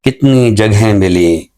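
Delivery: slow, measured ghazal recital, lingering on lines; poem recitation. Acted. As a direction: recite each couplet slowly, letting it land. Poet recites his ghazal.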